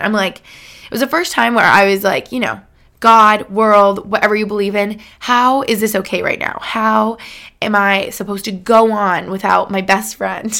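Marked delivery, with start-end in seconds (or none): 3.0-10.5 raised, pleading cry to the heavens; anguished plea to God. Retold or imitated. Grieving daughter recalls crying out to God, raised and pleading. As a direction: call out to God as if it still hurts. Retold plea after losing dad.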